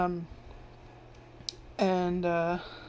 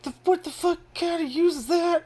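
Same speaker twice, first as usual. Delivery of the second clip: much higher, louder disbelieving squawk; incredulous; 10 semitones higher, 5 dB louder than usual. Retold or imitated. Main character baffled by a useless book, high incredulous squawk. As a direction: toss it out in shocked disbelief. Protagonist reacting to survival book.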